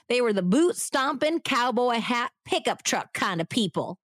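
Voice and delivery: twangy Texas neighbor voice, hammed-up; bad Southern accent. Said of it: "bad Southern accent acting".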